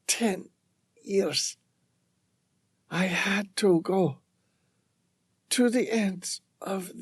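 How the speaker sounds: faint, breathy whispered farewell. A narrator's reading. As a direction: whisper it, fading away. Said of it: "In a whisper".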